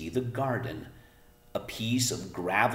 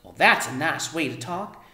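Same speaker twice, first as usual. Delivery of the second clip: high, loud indignant mother; offended Homily; 12 semitones higher, 5 dB louder than usual. A narrator's reading. Mother indignant at daughter's careless talk, high loud. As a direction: take offence and scold.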